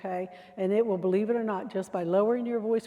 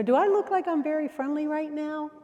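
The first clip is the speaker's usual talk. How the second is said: higher, sarcastic put-on voice; hostile sarcasm; 6 semitones higher than usual. Shown as a demonstration. Trainer acting a rude volunteer, sarcastic and hostile. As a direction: sneer at them. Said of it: "you don't wanna".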